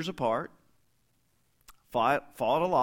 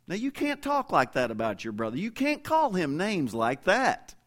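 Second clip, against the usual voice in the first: scolding parent; 7 semitones higher, 4 dB louder than usual. Retold or imitated. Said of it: "Maybe you say".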